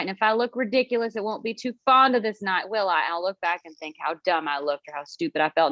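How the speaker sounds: ordinary talk, nothing marked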